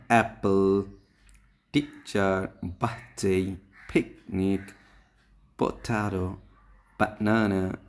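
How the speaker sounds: each word alone, its stressed syllable punched; separate, measured words with one heavy beat each; stressed-syllable drill. Shown as a demonstration. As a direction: read a word list, hitting the strong syllable in each. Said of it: "Clap your hands when you say the stress syllables".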